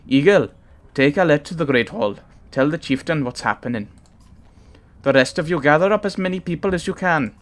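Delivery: put-on mild urgent Welsh accent. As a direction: give commands in a light Welsh accent. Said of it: "he's Welsh".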